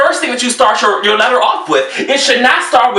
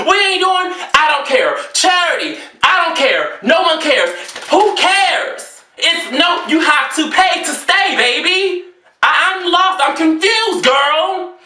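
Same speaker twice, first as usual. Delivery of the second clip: exasperated rant; 5 semitones higher, slower than usual. Real, not acted.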